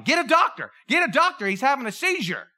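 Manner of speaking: mock yell. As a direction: call for help in a pretend panic. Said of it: "They might have been yelling".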